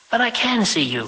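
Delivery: high, incredulous exclamation; exclaimed. Acted. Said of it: "she exclaimed".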